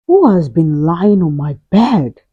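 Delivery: a hint of big gruff Father Bear; very loud voice. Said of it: "he asked in a very loud voice".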